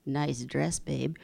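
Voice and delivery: a hint of a sleazy flirt; mock sleazy guy. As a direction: lightly play a cheesy guy hitting on someone. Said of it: "some guy walks up and goes".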